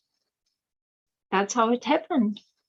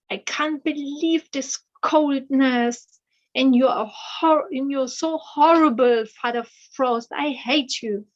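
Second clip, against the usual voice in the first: desperate anger; 4 semitones higher, 3 dB louder than usual. Acted. Freezing daughter railing at Father Frost, desperate and angry. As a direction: cry out your fury at the cold. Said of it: "even more desperate and even more angry".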